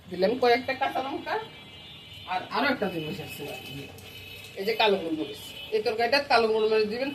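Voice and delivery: talking with paan in the mouth; chewing paan. Real, not acted. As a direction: speak around a mouthful of paan. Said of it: "আমার মুখে পান আছে বন্ধুরা".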